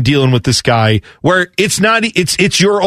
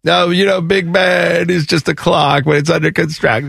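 mock British accent. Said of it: "she's like".

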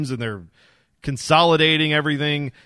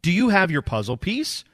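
high excited squirrel; high, bright storybook critter; 6 semitones higher than usual. Acted. Reading squirrel dialogue.

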